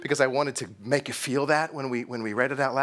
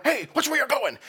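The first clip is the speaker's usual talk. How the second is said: angry crowd shout; 10 semitones higher than usual. Retold or imitated. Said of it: "hear an angry crowd".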